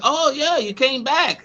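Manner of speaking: a hint of a chirpy cashier girl; voicing the girl. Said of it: "she was like".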